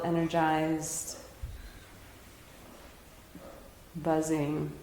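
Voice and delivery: unhurried, gentle meditation guiding; guided meditation. Real, not acted. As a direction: ease them into stillness, leaving long pauses. Leads a meditation.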